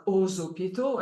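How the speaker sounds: "aux hôpitaux" linked as "o-zopito"; French "aux hôpitaux" with a z linking the words; liaison with Z. Shown as a demonstration. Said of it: "X that is pronounced like a Z".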